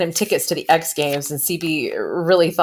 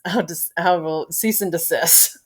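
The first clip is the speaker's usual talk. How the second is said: slower, laughing through the words; 4 dB quieter than usual. Real, not acted. Teacher reviewing the show catches herself joking, laughing. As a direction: giggle while backing off the joke. Giggling after her own dirty joke.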